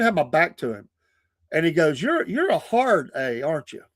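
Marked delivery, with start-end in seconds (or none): 2.0-3.8 mock taunt. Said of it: "he just lit on me".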